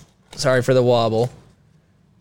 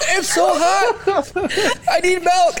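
strained, laughing through the burn; mouth on fire; slower than usual. Real, not acted. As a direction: gasp it out through burning heat. Burning mouth, laughing, crying.

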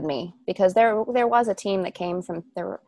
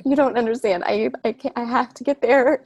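retold meltdown; 5 semitones higher, 4 dB louder than usual. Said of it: "really, really lost it".

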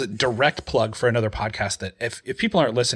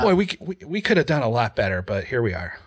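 put-on old man stump speech. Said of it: "old man stump speech".

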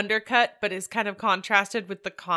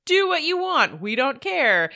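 mock carefree crew; 7 semitones higher, 5 dB louder than usual. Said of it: "get away with".

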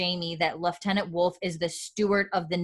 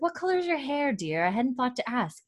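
Jocasta voice; 7 semitones higher than usual. Retold or imitated. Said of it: "and she's like".

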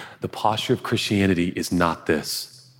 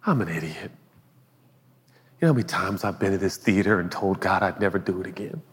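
ashamed confession. Retold or imitated. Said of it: "you're like".

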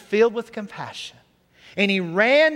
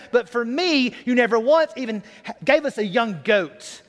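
put-on raised, indignant older brother; angry complaint; 3 semitones higher than usual. Older brother protesting to father, hammed-up anger. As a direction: vent years of resentment at father. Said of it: "he became very angry".

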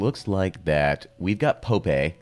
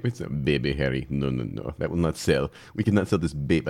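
lower, badly faked German accent; 5 semitones lower than usual. Germans rejecting the Baby Henry name, bad German accent. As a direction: put on a failed, half-hearted German accent. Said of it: "I don't know what these German accent. It's not a German accent".

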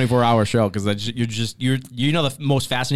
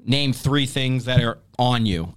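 slow game prompt; slower than usual. Shown as a demonstration. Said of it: "I'll say, like".

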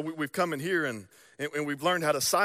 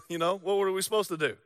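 laughing excuse; faster than usual. Retold or imitated.

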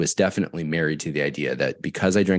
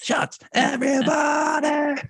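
put-on high, slow drunken party shout; slower than usual. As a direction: belt it out like a tipsy partygoer. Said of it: "my little drunk voice".

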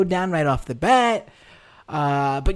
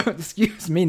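softer, recovering from a choking fit; choking on a drink; 7 dB quieter than usual. Real, not acted. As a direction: clear the throat after choking. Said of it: "Now I'm, like, choking".

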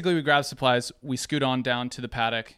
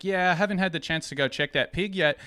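lightly put-on New Zealand accent, higher; higher-pitched amateur New Zealand accent; 5 semitones higher than usual. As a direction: voice the coworker with a Kiwi accent. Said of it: "I'm gonna do a New Zealand, Australia accent".

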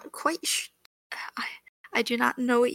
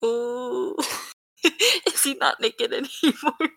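giggling; slower than usual. Retold or imitated. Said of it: "It's like".

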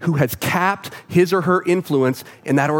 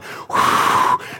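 panicked sigh. Retold or imitated. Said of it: "like she was freaking out".

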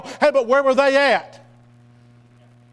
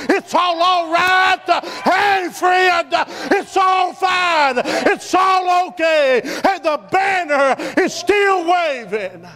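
shouted, slow-building sermon climax; preaching at full force; 3 semitones higher, slower than usual. Acted. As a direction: shout it out to the congregation, drawn out.

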